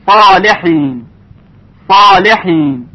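heavy, full ص in صالحین, drawn out slowly; heavy tafkhim. Shown as a demonstration. Tajwid teacher showing the heavy letter ص, thick tafkhim. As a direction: say صالحین slowly with a thick, emphatic ص and dark following ā.

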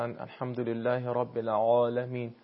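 العالمین with an over-heavy, full ayn; heavy ayn, mistaken. Shown as a demonstration. Teacher showing students a common mistake, heavy full-bodied ayn. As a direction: make the ع in العالمین coarse and bulky. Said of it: "درشت و پرحجم تلفظ بشه".

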